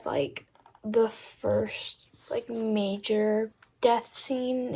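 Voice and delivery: slow, soft whisper, holding back a spoiler; slow hushed whisper about a sad scene. Real, not acted. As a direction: lean in and breathe it so nobody hears.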